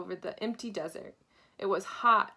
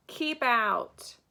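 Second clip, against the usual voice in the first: yelled; 3 semitones higher, 5 dB louder than usual. Acted. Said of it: "yelled Hank".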